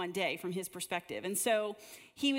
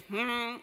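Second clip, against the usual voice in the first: mock grumpy hmm; 2 semitones higher, 3 dB louder than usual. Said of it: "The thumbs down people were like".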